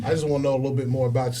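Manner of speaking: fast Arkansas twang; Arkansas accent. Shown as a demonstration. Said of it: "I use my Arkansas, Arkansan twang".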